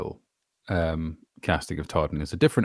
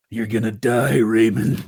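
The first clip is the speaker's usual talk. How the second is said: put-on a touch of menacing American accent, a little louder; evil American accent; 4 semitones higher, 6 dB louder, slower than usual. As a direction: threaten Raymond in an American accent, chilling and evil. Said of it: "Alistair, can you do that voice?".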